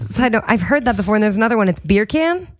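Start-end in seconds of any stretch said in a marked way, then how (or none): 1.7-2.5 Australian accent. Shown as a demonstration. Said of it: "in, like, an Australian accent".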